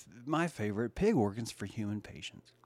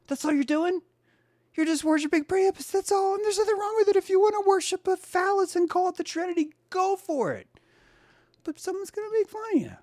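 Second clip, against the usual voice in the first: mocking squeal; 6 dB louder than usual. Mocking rant about worshiping Priapus.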